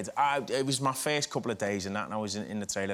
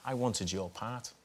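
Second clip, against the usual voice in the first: lower, softer and slow, a hint of a tough older man; imitating Joe Pesci; 3 semitones lower, 7 dB quieter, slower than usual. Actor retells Joe Pesci wanting his part, lower, softer and slow. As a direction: let it land low and slow like a quiet threat.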